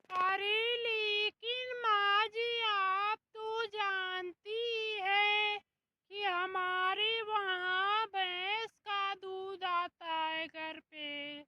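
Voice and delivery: mock indignant daughter-in-law; loud protest. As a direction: push back loudly at the mother-in-law. Bahu protesting about the tea.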